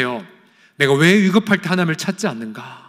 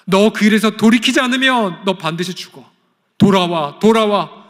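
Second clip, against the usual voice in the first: urgent pleading call; 6 semitones higher, 5 dB louder than usual. Acted. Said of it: "열망하셨던 거예요".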